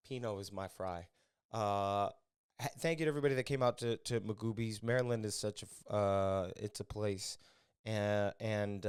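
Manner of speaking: ordinary talk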